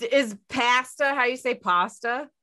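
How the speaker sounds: "pasta" first with a flat A, then with an ah; querying pronunciation. Shown as a demonstration. Asking a friend how they say pasta, contrasting vowels.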